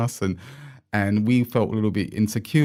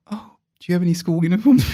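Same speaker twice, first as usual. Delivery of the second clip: high, louder posh Australian sneer, imitated; mock posh Australian accent; 8 semitones higher, 7 dB louder, faster than usual. Private school student mocking the missing uniforms, high mock posh Australian accent. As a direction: look down on them in a put-on posh Australian accent. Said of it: "and then he said".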